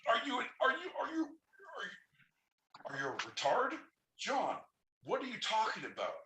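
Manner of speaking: high, incredulous stammer; mock outrage. Mock-stunned at John's plan, stammering high. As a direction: act stunned by the idea.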